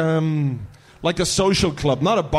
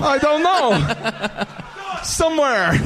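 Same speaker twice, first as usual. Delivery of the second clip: laughing Dutch voice that slides South African; hammed-up Dutch drifting South African; mock Dutch accent; 6 semitones higher, much slower than usual. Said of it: "If I do, uh, Dutch, it ends up South African".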